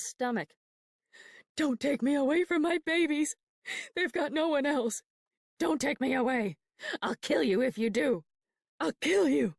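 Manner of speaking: high, loud desperate pleas turning to threats; frantic screaming. Acted. Mother screaming at the nurses to leave her with her babies, high and loud. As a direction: scream it like they're tearing you from your babies. Mother fights being taken away.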